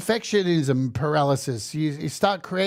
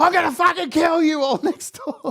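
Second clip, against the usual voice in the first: put-on very high furious yelling; 11 semitones higher, 4 dB louder than usual. Retelling a moment of rage at tech trouble: imitating own furious yelling. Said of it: "I was just yelling out".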